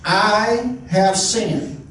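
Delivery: slow, deliberate "I have sinned"; a sincere, unhurried admission; humble confession. Shown as a demonstration. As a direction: say it slowly, owning it. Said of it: "It's just saying".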